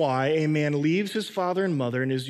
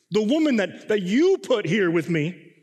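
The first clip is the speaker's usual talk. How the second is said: blaming whine; 4 semitones higher, 4 dB louder than usual. Retold or imitated. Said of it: "he's blaming God, period".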